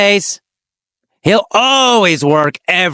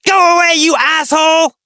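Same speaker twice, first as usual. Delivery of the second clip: really angry; 9 semitones higher than usual. A narrator's reading. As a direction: yell the insult to chase him off. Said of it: "They're gonna get really angry".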